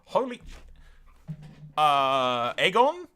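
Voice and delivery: high rising then falling cry of disbelief; stunned disbelief. Real, not acted. Gamer reacting to the prince joining the Watch, stunned disbelief.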